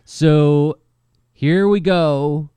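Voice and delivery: slow, loud, high kickoff; excited intro. Acted. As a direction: announce it like a show host. Launching into episode intro.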